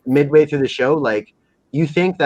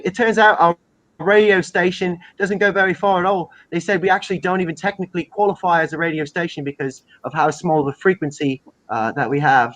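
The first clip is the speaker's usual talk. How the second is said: higher, lightly acted English interviewee; mockumentary interview; 4 semitones higher than usual. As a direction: explain it earnestly to the camera. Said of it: "he's doing the interview".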